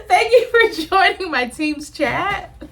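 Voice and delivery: a playful fake office host voice; mock corporate host. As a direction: play the chirpy boss closing a call. Mock team meeting sign-off.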